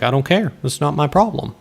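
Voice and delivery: hint of a bored deity shrugging off the hero; dismissive Transcendent One. Game villain brushing player off.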